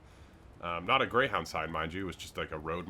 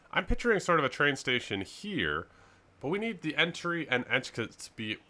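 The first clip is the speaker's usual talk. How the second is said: slightly thick speech from swollen tongue; 5 semitones higher than usual. Real, not acted. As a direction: talk around a swollen tongue. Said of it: "my tongue is swollen on one side".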